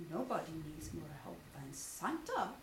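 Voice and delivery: low bear voice, mild exclaim; a gentle bear's low call; Pooh crying out. Acted. Pooh telling friends about Santa, low voice. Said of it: "he cried".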